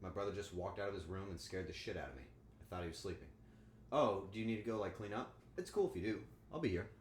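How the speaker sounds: ordinary talk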